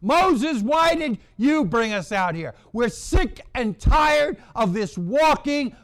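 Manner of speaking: preacher voicing the people's angry grumbling in the desert; angry complaining. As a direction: rail at them, sick and tired of it all. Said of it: "So they're grumbling and they're complaining".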